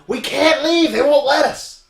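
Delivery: loud, high imitated yell; woman yelling out in alarm. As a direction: holler it high to the whole store. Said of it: "a woman comes in yelling".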